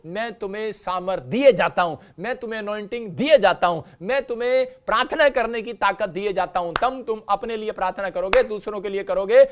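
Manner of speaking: loud, emphatic sermon voice; fiery preaching. Acted. Preacher urging the congregation with promises, fiery. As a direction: pound each promise home.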